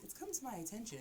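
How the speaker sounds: customer service voice. Retold or imitated. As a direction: sound like a call center agent. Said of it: "put on the customer service voice".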